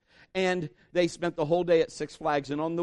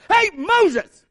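high, very loud holler; comic full-force yell; screaming; 12 dB louder than usual. Acted. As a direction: bellow to get someone's attention. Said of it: "He's like".

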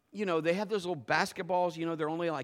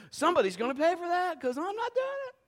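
high, louder mock-insistent refusal; cocky demand; 14 semitones higher, 3 dB louder than usual. Pastor retelling his dare terms to the kids, high and insistent. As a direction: insist they pay, pitched up.

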